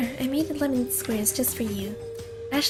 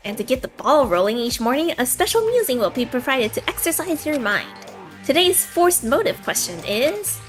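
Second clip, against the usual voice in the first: fighting game announcer; 5 dB louder than usual. Acted. Announcer builds suspense.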